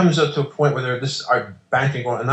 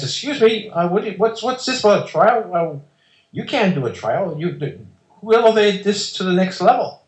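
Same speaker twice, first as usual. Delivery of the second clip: higher-pitched indignant retort; defiant challenge; 8 semitones higher than usual. Retold or imitated. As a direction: raise the voice up and demand answers. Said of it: "I get really defiant".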